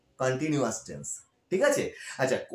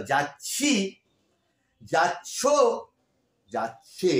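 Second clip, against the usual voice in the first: যাচ্ছি, যাচ্ছ, যাচ্ছে set apart by long pauses; stressed verb endings; much slower than usual. Shown as a demonstration. Teacher showing which endings changed, যাচ্ছি, যাচ্ছ, যাচ্ছে spaced apart. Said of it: "যেই উচ্চারণটা বাংলাতে পাল্টে গেল".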